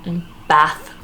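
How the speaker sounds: slow, separated Northern English vowels; Northern English accent. Shown as a demonstration. Vlogger attempting the North for viewers, Northern English accent. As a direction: try Northern English, "glass" and "bath" word by word. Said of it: "The only thing I can do is us".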